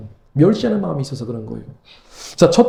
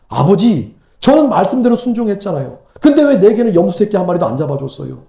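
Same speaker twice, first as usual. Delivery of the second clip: mild protest; 2 semitones higher than usual. Acted. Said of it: "지금 따지고 있죠".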